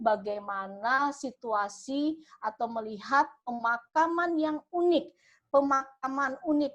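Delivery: lively news-reporter hook, leaning in on unik; engaging reporter opening. Shown as a demonstration. Demoing a catchy opening for aspiring reporters, lively reporter voice. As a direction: pull the viewers in like a reporter on location. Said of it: "itu adalah opening yang menarik".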